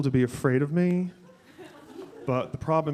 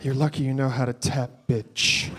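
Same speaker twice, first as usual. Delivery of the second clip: catty choreographer. Retold or imitated. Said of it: "Broadway choreographer".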